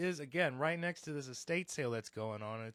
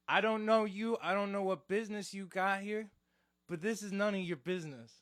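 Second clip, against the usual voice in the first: raised, louder mobster brush-off; goomba mode; 5 semitones higher, 5 dB louder than usual. Retold or imitated. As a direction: warn her off like a mock wiseguy. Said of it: "I went full Goomba mode".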